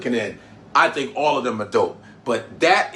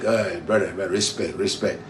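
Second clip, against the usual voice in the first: imitating a singer; 6 semitones lower, 4 dB quieter than usual. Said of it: "He's like".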